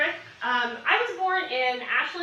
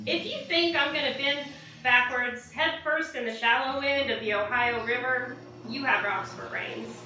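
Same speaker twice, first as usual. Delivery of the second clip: defiant spoken-word delivery in measured phrases; poem recital. Acted. Poet defying a preacher in her poem, spoken-word recital. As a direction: recite it with punched openings and falling line ends.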